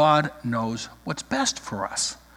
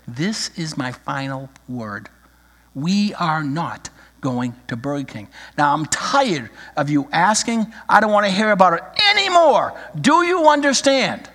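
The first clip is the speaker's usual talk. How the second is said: frustrated final word. Acted. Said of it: "a very frustrated young mother".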